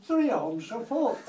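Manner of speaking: loud, high stubborn retort; stubborn haggling. Acted. Sam refusing to budge on his price to Noah, stubborn.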